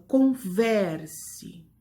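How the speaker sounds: "converse" very slow, VER stretched and stressed. Shown as a demonstration. Teacher shows the class the tonic syllable, VER stressed in "converse". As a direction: lean hard on the VER in "converse". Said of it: "pronuncia com mais força".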